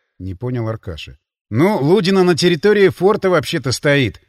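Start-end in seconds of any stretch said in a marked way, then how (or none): 1.5-4.2 sarcastic. Acted. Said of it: "язвительно заметил я".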